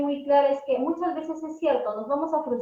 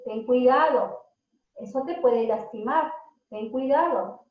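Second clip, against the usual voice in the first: gentle caution. Shown as a demonstration. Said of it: "en vez de decir".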